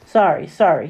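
put-on boy stumbles into bike and blurts sorry; blurted apology. Blurted sorry to stranger. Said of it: "he blurted out".

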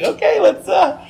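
high, loud awkward call; awkward shout. Retold or imitated. Acting out awkward bus run.

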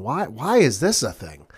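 puzzled, swooping pitch on each why; retold baffled question; mock bafflement. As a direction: act out mild disbelief. Retelling their puzzled reaction to announcement.

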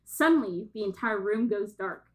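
measured read-aloud narration; synopsis reading. Acted. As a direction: read the plot blurb out with light drama. Reads out a synopsis.

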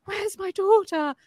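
high, drawn-out mock wail; imitating a mother's wailed demand; demanding cry. Mother demands her daughter after birth.

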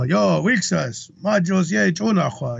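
slow, drawn-out call in Kwakwala. Retold or imitated. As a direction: imitate addressing the big fellas in Kwakwala. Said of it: "started talking Kwakwala".

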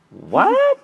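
high, loud mock-kid what; kid's baffled what. Kids to dad, squeaky baffled what. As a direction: play the confused kid, way up high. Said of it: "be like".

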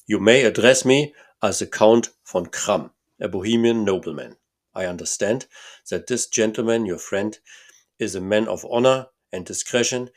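put-on loud, proud nobleman with a German accent; a lightly voiced Bohemian count, pompous; hint of a German accent, grand and loud. Count's voice in read story.

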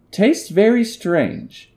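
very high, slow squeaky voice; high-pitched noise. Retold or imitated. Boyfriend tasting potato, slow high squeak. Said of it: "I made a high-pitched noise".

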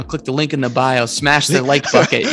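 lightly voiced mock influencer; a hint of an influencer sign-off. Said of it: "I sound like an influencer now".

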